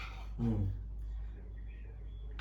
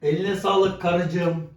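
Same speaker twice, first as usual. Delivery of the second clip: sweet thanks; 3 semitones higher, 3 dB louder, much slower than usual. Real, not acted. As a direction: draw it out sweetly to the wife. Thanking wife, drawn out.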